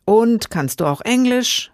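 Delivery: trembling voice. Acted. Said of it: "mit bebender Stimme".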